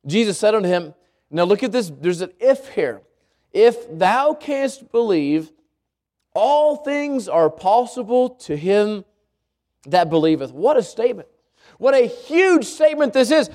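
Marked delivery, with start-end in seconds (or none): 3.5-10.5 slow solemn reading. Acted. Preacher reading Jesus' key line.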